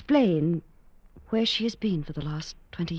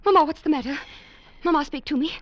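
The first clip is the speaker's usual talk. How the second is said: alarmed, higher and louder calls; panicked cry; 7 semitones higher, 7 dB louder than usual. Acted. Daughter calls to her collapsing mother in panic.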